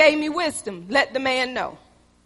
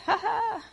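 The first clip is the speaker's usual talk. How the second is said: imitating grandfather's laugh; 8 semitones higher, 9 dB quieter than usual. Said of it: "he always had that laugh".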